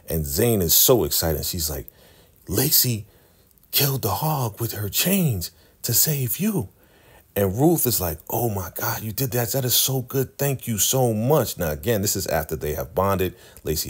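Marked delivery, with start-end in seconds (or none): 2.5-6.7 higher, breathless mock excitement; excited news. Zane tells Ruth the news, in a higher excited mock voice. 8.3-11.6 higher, slowing mock thank-you; lightly voiced, gush your thanks; grateful gush. Ruth thanks Lacey for saving her, in a higher gushing voice.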